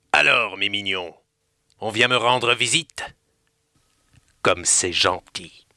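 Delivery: sly and menacing, stretching the end; raspy crow. Acted. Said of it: "de sa voix éraillée". (corbeau à la voix éraillée, plus grave, lent et moqueur)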